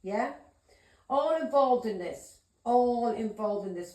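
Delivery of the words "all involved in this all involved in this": emphatic accusation. Real, not acted. Accusing, repeated slowly.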